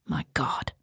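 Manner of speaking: softly whispered "my God"; hushed grieving whisper. Acted. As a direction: breathe it out in grief. Priest grieves for the boy.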